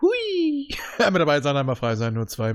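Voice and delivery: gespielte Achterbahnfahrt, jauchzend; Hui, als säße man in der Achterbahn; on a roller coaster. Pretend. (wie auf der Achterbahn, juchzend)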